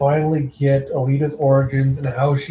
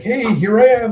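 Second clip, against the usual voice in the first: high sing-out taunt; teasing taunt; 9 semitones higher, 4 dB louder than usual. Acted. Villain dancing circles round Alita to tease her, taunting. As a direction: pitch it way up, goading.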